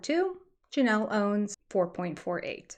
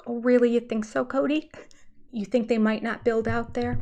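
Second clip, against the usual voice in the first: sarcastic fake surprise; 2 semitones higher than usual. Sarcastic reply to Cody.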